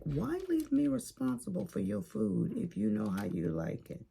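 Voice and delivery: mock complaint to the kids about the steak; exasperated retort. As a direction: toss the blame back, annoyed. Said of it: "I'm like".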